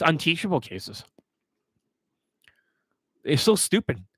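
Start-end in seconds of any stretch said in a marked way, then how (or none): 3.2-4.0 a disgusted whispered aside. Real, not acted. Coach sneering to viewers about students, whispered. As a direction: drop to a breathless whisper to sneer.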